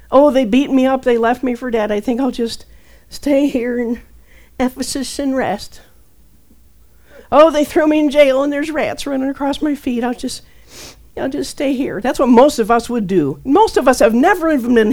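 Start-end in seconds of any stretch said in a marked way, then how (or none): 0.1-12.0 mock whiny quitter. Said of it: "He never chickened out".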